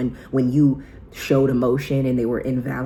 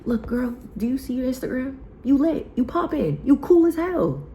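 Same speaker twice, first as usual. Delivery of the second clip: high, bright pep talk to her younger self, getting louder; hyped-up cheer; 11 semitones higher, 4 dB louder than usual. Retold or imitated. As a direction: gush at her like an excited best friend. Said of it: "I said".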